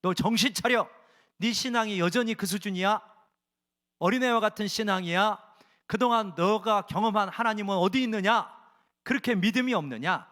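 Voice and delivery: God telling a lax believer to wake up, stern and loud; God's rebuke. Acted. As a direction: rebuke them sharply from above.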